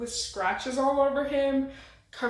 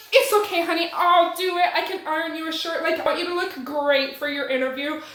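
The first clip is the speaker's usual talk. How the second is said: mother's voice; 3 semitones higher, faster than usual. Retold or imitated. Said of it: "she's like".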